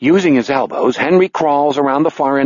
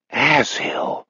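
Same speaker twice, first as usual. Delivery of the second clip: softer, muted non-German curse; weird non-German accent; 5 dB quieter, slower than usual. Acted. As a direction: mutter it in an odd pseudo-German accent. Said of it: "accent melts into that weird non-German".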